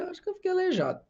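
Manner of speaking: jumps way up high, fast and panicky; alarmed retelling. Retold or imitated. Recalling the moment he feared being paralysed, high alarmed voice. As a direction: blurt it out like a sudden scare. Fearing he's paralysed in prayer.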